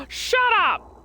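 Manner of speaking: high, loud outburst of offence; indignant mock shout. Bao snapping back at teasing mermoos, indignant shout. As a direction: yell it in hammed-up outrage.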